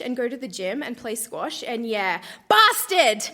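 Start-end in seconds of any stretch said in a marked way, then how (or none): 2.5-3.2 mock outburst. Cursing ex in diary.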